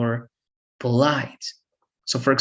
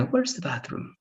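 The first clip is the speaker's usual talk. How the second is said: blunt; 5 semitones higher, 6 dB quieter than usual. Shown as a demonstration. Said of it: "is way better than".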